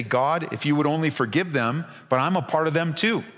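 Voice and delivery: earnest, mildly acted plea of a shepherd; pleading Moses. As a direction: plead with God for forgiveness. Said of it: "as if to say".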